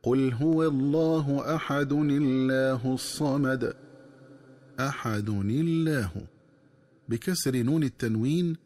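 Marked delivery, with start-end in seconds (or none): 0.0-3.8 slow Quranic recitation, أحد الله linked with kasra on the nun, الله with a light lam; recited with linking. Shown as a demonstration. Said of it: "تكون القراءة هكذا". 4.8-6.1 أحد الله joined as "aḥadunillāh", light lam; linked recitation. Shown as a demonstration. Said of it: "تكون القراءة هكذا".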